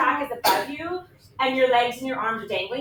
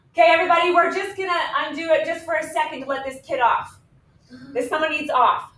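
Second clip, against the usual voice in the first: raised voice, calling to those nearby; ride attendant; 4 semitones higher than usual. Retold or imitated. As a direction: imitate an attendant addressing the riders. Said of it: "doesn't say it in the loudspeaker".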